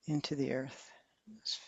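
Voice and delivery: fading into a breathy whisper. Acted. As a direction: let the words sink away to a whisper. Meditation cue sinking into earth.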